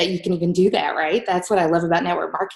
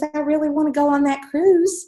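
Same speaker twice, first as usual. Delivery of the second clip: put-on pleading child; 6 semitones higher than usual. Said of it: "And she goes".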